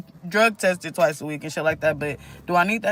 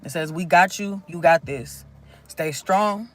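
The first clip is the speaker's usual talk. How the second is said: channeled message reading. Acted. Reads channeled messages to viewers.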